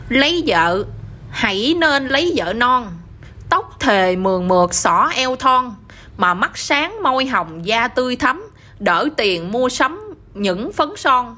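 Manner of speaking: measured, slow verse delivery; slow poem recital. Acted. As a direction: recite each verse line slowly and evenly. Son recites verse to mother.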